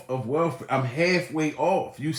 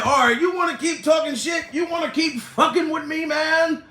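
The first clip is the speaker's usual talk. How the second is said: imitating Steve Harvey; 11 semitones higher than usual. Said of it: "That motherfucker said".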